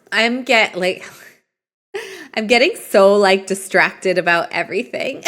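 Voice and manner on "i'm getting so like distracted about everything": laughing. Real, not acted. Laughing at herself.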